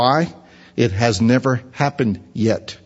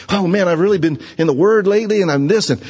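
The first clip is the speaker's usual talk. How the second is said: higher, eager self-satisfied chatter; mock boasting; 6 semitones higher than usual. Christian bragging about blessings, mock eager. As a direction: brag about your devotion. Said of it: "Christians will say that".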